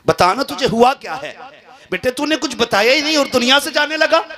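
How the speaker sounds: father's voice rising high in anguish; desperate father begging; pleading cry. Acted. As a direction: beg the son in a high, breaking plea. Father pleading with dying son.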